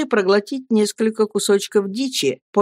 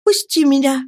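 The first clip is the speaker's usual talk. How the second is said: put-on lightly raised girl's voice, pleading; young woman's plea; 8 semitones higher, 4 dB louder than usual. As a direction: ask him to let go, gently. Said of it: "сказала наконец девушка".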